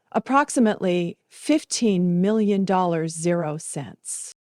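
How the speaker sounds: a hint of a measured lawyer, slowing on zero cents; lightly voiced attorney. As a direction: state the sum calmly, like reading a figure off a file. Attorney announces the inheritance.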